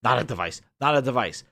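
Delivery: a mild mock chant of "not a device"; lightly mocking, droning "not a device" three times; mocking repetition. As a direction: parrot the slogan back sarcastically. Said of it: "They keep emphasizing".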